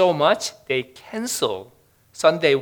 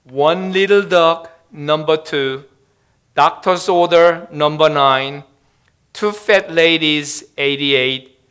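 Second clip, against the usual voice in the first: mock-solemn bingo call, slightly raised; solemn announcement; 3 dB louder than usual. A narrator's reading. Old pensioner leaning over the dying man, mock-solemn announcing. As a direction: intone each call with a pause after it. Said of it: "in a solemn voice".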